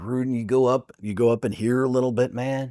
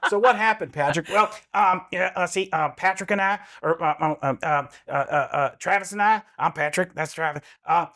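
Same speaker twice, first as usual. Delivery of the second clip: put-on higher, rambling kid reporting an accident; flustered little kid telling the grown-ups; Patrick Mahomes impression; 3 semitones higher than usual. Mahomes as a kid telling adults a friend got hurt. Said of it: "Patrick Mahomes in an interview sounds like".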